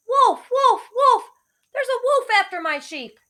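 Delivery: high, loud alarmed shout; yelling. Acted. Shepherd boy yelling to the townsfolk, high and loud. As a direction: cry wolf to the whole town. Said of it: "ran all the way into town yelling".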